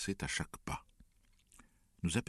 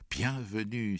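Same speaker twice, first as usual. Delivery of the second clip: higher, mildly raised exclamation; mother's welcoming cry; 6 semitones higher, 4 dB louder, slower than usual. A narrator's reading. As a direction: call out a welcome, a touch less forceful. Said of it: "s'écria mère". (exclamation de bienvenue de la mère)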